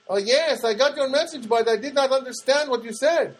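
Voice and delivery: high, prim voice for Janet; mock Janet.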